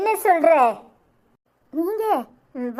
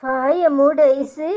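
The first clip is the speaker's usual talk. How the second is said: angry command; 2 semitones lower, much slower than usual. Acted. Mother silencing daughter angrily.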